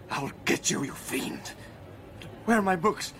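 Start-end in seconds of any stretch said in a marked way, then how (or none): 0.1-1.5 hissed, unvoiced vow of revenge; whispered threat. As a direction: breathe the threat at the rat. Threatening the rat.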